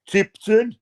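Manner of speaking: high, loud disbelieving Tipton; surprised question. Real, not acted. Reading out a viewer's hometown, high surprised disbelief. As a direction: pop up in disbelief.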